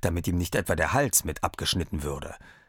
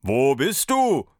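puzzled master; 5 semitones higher, 5 dB louder, slower than usual. A narrator's reading. Master calls into the dark.

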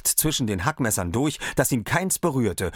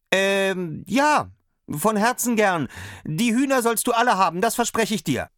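eager little tailor; 12 semitones higher, 4 dB louder than usual. A narrator's reading. Tailor eagerly promises hens.

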